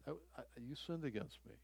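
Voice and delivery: quiet and earnest, telling them they hurt you; soft confrontation. Retold or imitated. Offended person softly confronting the offender, low and hushed. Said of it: "and say".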